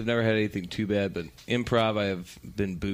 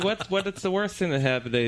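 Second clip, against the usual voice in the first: much higher, bright host question; chirpy host; 8 semitones higher than usual. Retold or imitated. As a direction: ask it like a forced-cheerful emcee. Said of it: "He's like".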